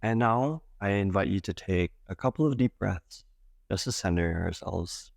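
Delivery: calm meditation guide with long pauses between phrases; guided meditation. Acted. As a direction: gently guide them into breath awareness, leaving space. Leads a guided breath meditation.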